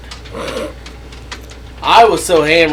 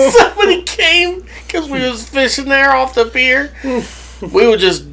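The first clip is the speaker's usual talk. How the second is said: laughing while talking; 10 semitones higher, 4 dB louder than usual. Real, not acted. Laughing through fishing story.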